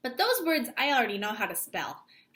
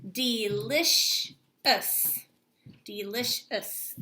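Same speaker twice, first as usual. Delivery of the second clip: Delicious stretched slowly, twice; slower than usual. Shown as a demonstration. Teacher listening for sounds in the word, slow. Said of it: "listened for those sounds".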